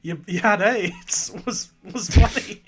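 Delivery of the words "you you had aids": slow deadpan line delivery; Norm Macdonald impression. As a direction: drawl it dry and deadpan. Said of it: "his delivery of the line".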